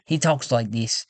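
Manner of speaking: lightly put-on English accent, slowed a little; tentative English character voice; English-style accent. Shown as a demonstration. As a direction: try out his English accent.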